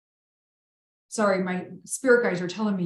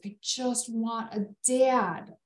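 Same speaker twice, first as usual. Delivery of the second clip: sad plea; 4 semitones higher, slower than usual. Retold or imitated. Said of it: "this fifteen-year-old goes".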